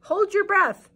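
high, loud ghostly instruction; ghost giving advice. Acted. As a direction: boss the skeleton like a ghost. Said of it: "Ghost told skeleton".

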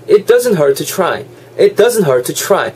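"hurt to" joined on one T; dropped T. Shown as a demonstration. Teacher modelling for learners, dropped T. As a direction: glide from "hurt" into "to" with a single T. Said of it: "T 한 개를 발음 안 하는".

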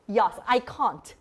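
slow mock-British open vowels; playful bad British accent; British accent attempt. Shown as a demonstration. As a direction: put on a shaky-skilled British accent. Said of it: "I can't do the British accent".

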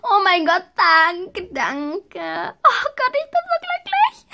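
high, crying shout of joy; overjoyed crying. Real, not acted. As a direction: sob out the disbelief of a dream come true. Overjoyed after getting horse. (Mädchen schluchzt vor Freude über ihr Pferd)

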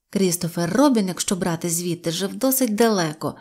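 usual speaking voice

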